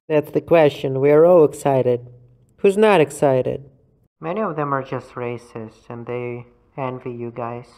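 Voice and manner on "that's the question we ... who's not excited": loud rhetorical push. Pretend. Heated rhetorical questions.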